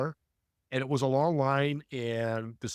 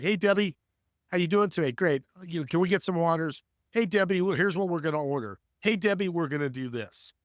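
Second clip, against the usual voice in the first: friendly greeting; 3 semitones higher than usual. Shown as a demonstration. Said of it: "Her energy level is completely changed".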